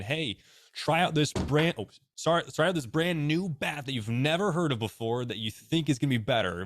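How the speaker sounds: mock sales pitch. Bat maker pitching an unknown brand to a big leaguer, mock salesy.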